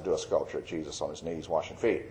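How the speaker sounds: hushed divine command; still small voice. Retold or imitated. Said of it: "He spoke in a still small voice".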